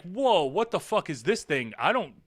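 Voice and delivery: lightly voiced puppy, slow and baffled; a hint of a startled puppy; dog's thoughts voiced. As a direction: play the confused dog balking at a log. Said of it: "and he's like".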